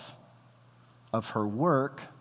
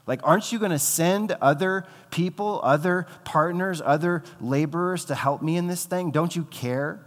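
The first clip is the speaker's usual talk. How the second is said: bitter complaint to God; 3 semitones higher than usual. Retold or imitated. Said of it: "you get to this point and you're like".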